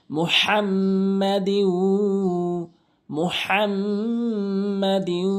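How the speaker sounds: মুহাম্মাদিউ with a pressed throat h and humming m. Shown as a demonstration. Teacher demonstrating ghunna and heavy h. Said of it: "চাপ দিয়ে উচ্চারণ করতে হবে".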